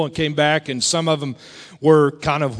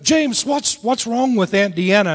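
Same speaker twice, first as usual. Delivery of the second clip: higher voice of a puzzled nephew; nephew's question; 5 semitones higher than usual. Retold or imitated. Nephew asks James about his aunt, puzzled. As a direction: lightly imitate a nephew asking. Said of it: "my nephew said".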